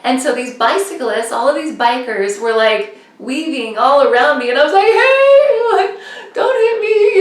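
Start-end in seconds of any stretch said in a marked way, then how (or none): 4.9-7.2 high, loud mock cry; retold alarmed call. Racer to bicyclists weaving round her, alarmed. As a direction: yelp it up high to passing riders.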